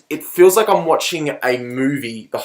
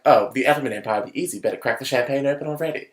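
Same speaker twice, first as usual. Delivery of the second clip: snooty British officer; 5 dB quieter than usual. Retold or imitated.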